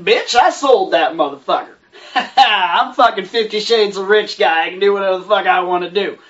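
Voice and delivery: cocky lines broken by laughter; laughing mock rich guy. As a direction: laugh through a smug rich-guy boast. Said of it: "And he's like".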